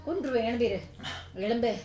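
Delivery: repeated orders rising to a scream; angry demand building to shriek. Acted. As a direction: keep ordering until you scream. Wife ordering him up.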